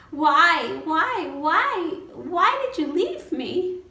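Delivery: high, loud cries of accusation; anguished angry outburst. Acted. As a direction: cry out at the father who left you. Confronting dead father, angry at him.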